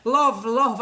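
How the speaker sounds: put-on loud, warbly old dear calling love; an old lady cooing love at the phone. Shown as a demonstration. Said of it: "where I talk to talk like that".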